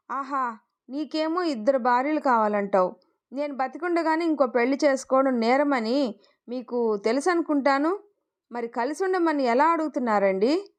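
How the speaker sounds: plain reading voice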